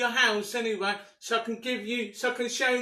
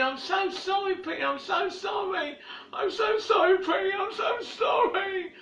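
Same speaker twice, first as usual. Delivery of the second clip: begging forgiveness; 2 semitones higher than usual. Real, not acted. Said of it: "he made a video begging for her forgiveness".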